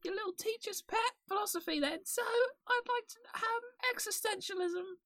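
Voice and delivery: very high squeaky ferret voice. Pretend. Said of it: "speak in the ferret voice".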